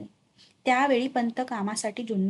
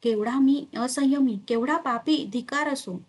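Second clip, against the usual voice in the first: mildly acted anger at himself, voice pushed louder; angry outcry; 2 semitones higher, 3 dB louder than usual. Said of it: "रागाने आंबा भिरकावून देत पंत उद्गारले".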